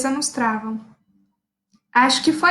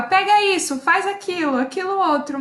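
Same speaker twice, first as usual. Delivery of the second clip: higher, brisk commands tossed out; bossy orders; 6 semitones higher than usual. Retold or imitated. To the midwives during the birth, a lightly bossy string of orders. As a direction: give orders like the one in charge. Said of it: "eu fiquei muito autoritária".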